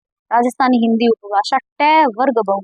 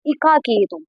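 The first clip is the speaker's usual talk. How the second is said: Bhojpuri dialect example; slower than usual. Shown as a demonstration. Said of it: "Bhojpuri के अंदर".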